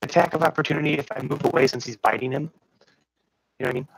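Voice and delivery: robotic glitchy mic voice. Real, not acted. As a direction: metallic distorted call audio. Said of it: "You, you sound really robotic all of a sudden".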